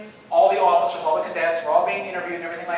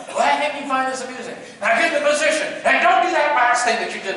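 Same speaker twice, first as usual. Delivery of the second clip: raised, higher instructor voice; imitated yelling; 5 semitones higher, 4 dB louder than usual. Drill instructor ordering cadet into position, mock yelling. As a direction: order the cadet about sternly. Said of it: "he starts yelling at me".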